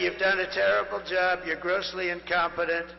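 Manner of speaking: loud, furious telling-off, building to shouts; angry firing. Pretend. Crowd told to shout at the opponent: furious loud firing. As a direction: bark it like you're firing her on the spot. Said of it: "You're gonna say".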